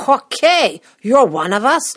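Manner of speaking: loud, high, put-on approval; hammed-up acceptance into the club; welcoming approval look. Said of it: "I get the".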